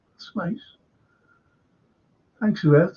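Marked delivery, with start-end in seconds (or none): 0.1-0.8 whispered. Real, not acted. Host reacts to a listener's message.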